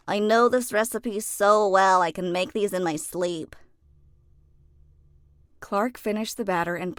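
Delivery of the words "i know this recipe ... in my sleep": lightly voiced confident elephant; a hint of a boastful baker; Clark's voice. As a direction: brush off the worry, sure of himself.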